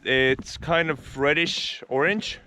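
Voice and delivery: thin, distant action-cam audio; recorded on a small camera mic; GoPro camera mic. Real, not acted. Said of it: "so I switched to the GoPro right now".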